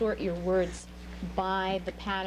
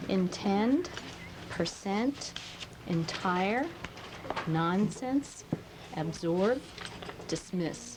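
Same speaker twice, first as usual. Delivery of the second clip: each word read out slowly with a rise at the end; reading stressed word list; 2 semitones lower, much slower than usual. Shown as a demonstration. Teacher reads a spelling list to the class, clearly stressing each word. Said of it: "Listen as I go through there again".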